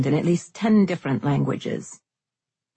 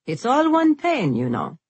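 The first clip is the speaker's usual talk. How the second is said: proud guildmaster voice; 7 semitones higher than usual. Acted. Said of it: "asked the ginger-haired leader of the Silk Guild".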